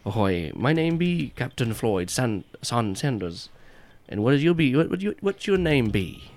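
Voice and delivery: salty pirate captain introducing himself; hearty pirate captain. Acted. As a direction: ham it up as an old sea captain. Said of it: "and he turns, goes".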